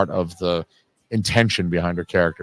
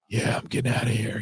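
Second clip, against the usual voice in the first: imitating Gene; 6 dB quieter than usual. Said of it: "even down to the way he talks, that kind of, like, breath".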